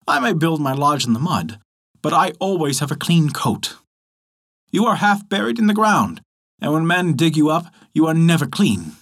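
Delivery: lightly voiced boastful muskrat.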